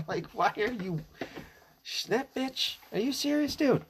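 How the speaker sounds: very high, outraged disbelief; can't believe what he said; exasperated squawk; incredulous rant. Real, not acted. Ranting at Trump's comment.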